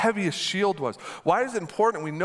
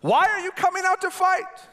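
much higher, taunting giant's shout; mild mock taunt; 13 semitones higher, 3 dB louder than usual. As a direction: jeer across the valley. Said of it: "shouted a taunt".

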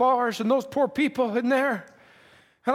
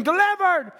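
mild mock cry, pitched higher; retold scream; 5 semitones higher than usual. People running out of broken bars, retold scream. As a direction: call it out like freed people, held back from a scream. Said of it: "people running and screaming".

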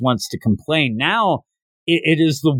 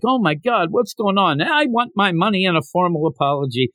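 shocked diners; 3 semitones higher than usual. Retold or imitated. Voicing shocked crowd of diners.

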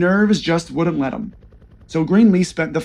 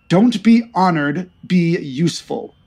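snapping. Acted. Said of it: "snapped Surly".

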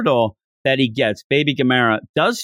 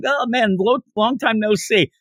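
excited greeting; 8 semitones higher than usual. Retold or imitated. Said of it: "he goes running".

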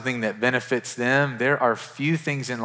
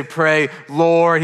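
louder, higher punch; emphatic preaching; 5 semitones higher, 7 dB louder than usual. Acted. Preacher lists what Jesus didn't say, emphatic. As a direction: proclaim it to the room. Preacher contrasts names for God.

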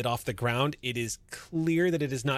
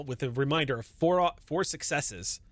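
normal talking voice

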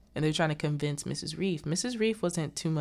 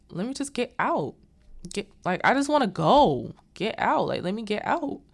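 higher-pitched mock pleading to leave; urgent plea; 5 semitones higher, 4 dB louder than usual. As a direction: retell her insisting she wants out. Girl struggling to get free.

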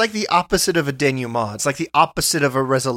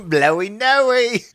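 laughing echo; 7 semitones higher, much slower than usual. Real, not acted.

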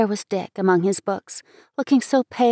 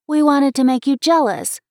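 higher, louder admission; eager confession; 6 semitones higher, 5 dB louder than usual. A narrator's reading. Girl confessing the scheme to Dick, in an excited voice. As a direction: own up in a girlish burst.

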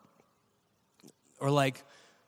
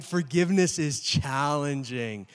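slow emphatic line; slower than usual. Acted. Slow emphatic first statement.

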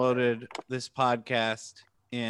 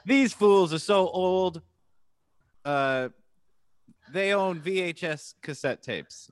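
put-on Gen Z kid voice; 5 semitones higher than usual. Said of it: "going like".

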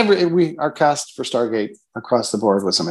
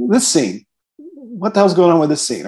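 mock demanding; 4 semitones higher than usual. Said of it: "come in to Rob's or my office and say".

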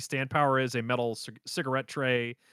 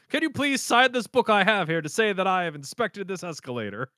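higher mock-official request; Joseph; 4 semitones higher than usual. Joseph asking Avdol to play along, mock-official bluff. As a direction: bluff it out, fully committed to the bit. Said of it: "hard committing to this bit".

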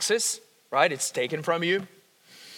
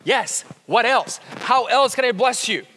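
cheerful eager yes; 3 semitones higher, 4 dB louder than usual. Retold or imitated. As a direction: offer gladly, eager to bless.

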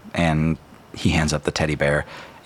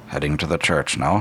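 man's quiet prompt; 2 semitones lower, 3 dB quieter than usual. Acted. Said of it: "the man says".

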